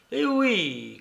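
high start sliding down; emphatic agreement. A narrator's reading. Alienist carrying on his explanation, emphatic agreement. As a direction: draw out an emphatic yes, falling away. Alienist insisting, carried away.

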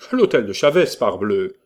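an irritated loud retort; exasperated shout. A narrator's reading. Exasperated reply to coachman.

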